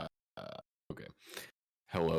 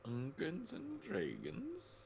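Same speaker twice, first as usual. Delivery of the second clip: high, drawn-out hype; cheering the game start; excited; 13 semitones higher, 6 dB quieter, much slower than usual. Acted. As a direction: sell the name like a trailer.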